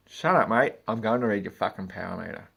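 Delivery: loud, fast irritated retort; imitating losing his temper; mock anger. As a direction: tell him to shut up, fed up. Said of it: "retort to customer".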